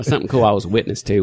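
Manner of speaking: playful touch of Southern accent. Shown as a demonstration. Guest echoing the host's teasing, in a light Southern accent. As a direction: let a little Southern accent slip out. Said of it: "get the accent out of there".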